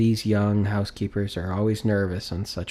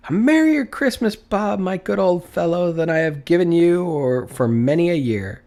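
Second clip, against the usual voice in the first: put-on loud, much higher joyful old man; overflowing with generosity; jubilant old man; 5 semitones higher, 4 dB louder than usual. Scrooge joyfully promises Bob help, loud and high.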